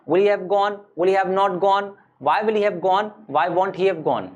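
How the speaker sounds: rhythmic, even-toned verb drill; grammar drill recitation. Shown as a demonstration. Teacher drilling forms of go for students, rhythmic recitation. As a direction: rattle off the forms in a steady chant.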